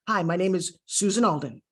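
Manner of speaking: "Susan Alden" set off by a little pause; measured introduction, pausing before "Susan Alden"; beat before name. Shown as a demonstration. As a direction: leave a beat, then land "Susan Alden". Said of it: "that little beat allows the listener".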